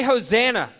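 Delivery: "Hosanna" shouted high and loud. Shown as a demonstration. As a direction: lead the room in a loud "Hosanna".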